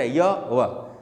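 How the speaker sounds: "य, व" sounded open, like vowels; vowel-like semivowels. Shown as a demonstration. Teacher demonstrating half-vowels, "य, व" said open and vowel-like. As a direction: let "य" and "व" glide with no hard contact. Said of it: "उच्चारण स्वरों की तरह".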